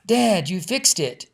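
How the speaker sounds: high, loud, slow excited shout. Acted. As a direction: call Mom down the hall thrilled. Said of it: "Lizzie shouted down the hall".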